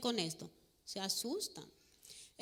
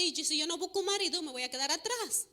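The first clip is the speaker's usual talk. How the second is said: put-on little girl; 5 semitones higher, faster than usual. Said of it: "Y ella dice".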